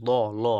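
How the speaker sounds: ল said full and heavy; round, thick ল sound. Shown as a demonstration. A Quran teacher to students, showing a heavy ল. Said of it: "আল্লাহটাকে আমরা পুর করে পড়বো".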